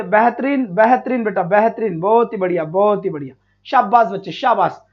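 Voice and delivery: low-pitched, approving praise. Real, not acted. Teacher to students answering well, approving low praise.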